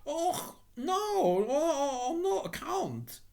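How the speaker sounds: very high, drawn-out protest; alarmed cry. A narrator's reading. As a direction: cry out anxiously to take it back. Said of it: "cried Little Hans".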